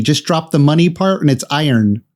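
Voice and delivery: iron said like "I earn" without money; teaching iron. Shown as a demonstration. Correcting a friend's iron, spelled out as "I earn". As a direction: stress "I earn" to show iron. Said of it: "I was like".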